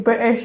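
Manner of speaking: "British" with a fumbled, softened middle; oddly said "British". Real, not acted. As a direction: trip over the middle of "British". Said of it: "You don't say British like that".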